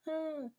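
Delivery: small, high-pitched whimper; mock whimper. Shown as a demonstration. Showing what the screaming was not, a mock whimper. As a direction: imitate a faint little cry. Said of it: "like, whimpering".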